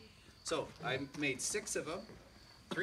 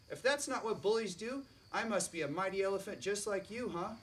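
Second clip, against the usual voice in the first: haughty bug queen; 4 semitones higher than usual. Acted. Scarab queen scolding the elephant who nearly crushed her, high and haughty. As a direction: lord it over the big beast from way up high.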